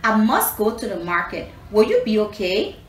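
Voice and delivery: Grandma Spider calls across the garden; calling out. Acted. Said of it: "She called".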